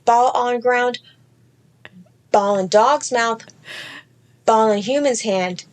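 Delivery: rhythmic list. Acted.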